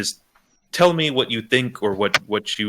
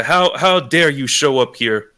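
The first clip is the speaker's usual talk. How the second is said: mock railing; 4 semitones higher, 4 dB louder than usual. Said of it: "You start railing him".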